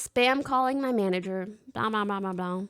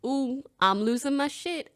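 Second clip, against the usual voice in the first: mild freakout; 2 semitones higher than usual. Shown as a demonstration. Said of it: "tiers to losing your shit".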